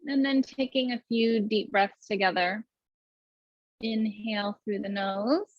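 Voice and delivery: even, unhurried meditation guidance; guided meditation. Acted. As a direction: lead the breath calmly, with long pauses. Leads guided breathing and meditation.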